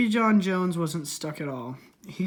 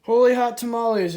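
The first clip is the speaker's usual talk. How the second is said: high, loud, quick exclamation; excited outburst in a read-aloud; exclaiming; 8 semitones higher, 11 dB louder, faster than usual. A narrator's reading. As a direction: burst out with a character's big exclamation. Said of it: "exclaimed Skippy John Jones".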